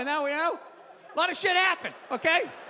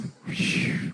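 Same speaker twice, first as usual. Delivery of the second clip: whoosh. Retold or imitated. Mimics car zipping down street.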